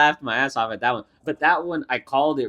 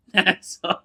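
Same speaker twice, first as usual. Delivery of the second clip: shocked laughing; 10 semitones higher, 5 dB louder, slower than usual. Retold or imitated. Own shocked reaction while laughing.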